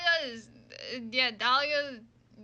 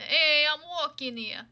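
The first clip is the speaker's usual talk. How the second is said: phony Italian New Yorker accent, drawn out; 4 dB louder, slower than usual. Shown as a demonstration. Player finding the forgotten accent again, Italian New Yorker accent. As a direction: stock New York Italian street line, slowly stretched. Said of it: "the New Yorker Italian".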